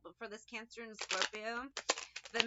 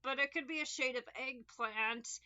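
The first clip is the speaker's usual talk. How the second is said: mock rambling answer; 3 semitones higher than usual. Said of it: "And they're just like".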